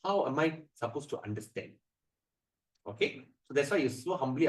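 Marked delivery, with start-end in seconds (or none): 0.1-1.7 soft, humble asking. Shown as a demonstration. Disciple asking his guru, soft and humble. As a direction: ask gently, like a disciple to a guru. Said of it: "this is how we speak".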